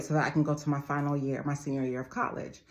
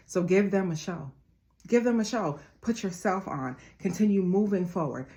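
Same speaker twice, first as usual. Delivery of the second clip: rising, fervent pep talk to the family; motivational speech; 2 semitones higher than usual. Acted. A motivational speaker urging her viewers to move forward, fervent. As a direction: preach it like a life coach rallying followers.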